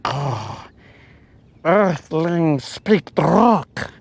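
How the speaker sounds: slow, otherworldly alien drawl. Retold or imitated. Imagined alien reading its signal, slow alien voice. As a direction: stretch each word out like a visitor from space. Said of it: "he's all like".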